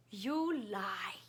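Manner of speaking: imitating a breathy whispered disbelief; retold whisper. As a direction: mutter it in a hushed whisper.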